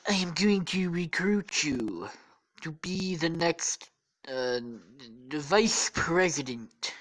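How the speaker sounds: slow, stretched presidential drawl; pompous mock politician, word by word; Donald Trump. Trump recruits his captive, slow hammy impression. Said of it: "then Trump is like".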